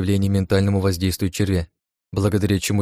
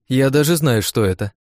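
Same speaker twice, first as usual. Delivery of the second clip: eager, higher exclaim; excited exclamation; 4 semitones higher, 3 dB louder than usual. Acted. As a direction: blurt it out excitedly. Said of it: "воскликнула она". (взволнованный возглас)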